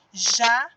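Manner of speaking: "Jacaré" in three beats, ja, ca, ré, long gaps; separated into syllables. Shown as a demonstration. Teacher splitting the word for pupils, syllable by syllable. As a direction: pause after each syllable of "Jacaré". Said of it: "separando em sílabas".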